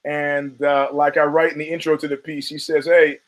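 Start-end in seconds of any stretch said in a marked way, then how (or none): 2.9-3.2 put-on German accent. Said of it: "in his German accent".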